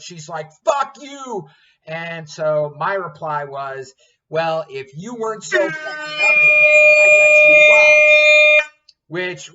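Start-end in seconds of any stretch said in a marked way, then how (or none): 0.6-1.5 high, loud mock snap at the cook; snapping server. Overwhelmed server snaps at the cook, a high loud mock snap. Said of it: "she snaps, she loses it". 4.3-8.7 angry retort. Retold or imitated. Retold insult in a kitchen fight.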